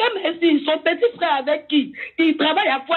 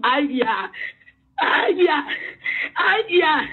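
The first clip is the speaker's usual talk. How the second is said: crying out aïe in anguish; wailing in despair; much slower than usual. Real, not acted. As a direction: wail it like real grief. Wailing cries of distress.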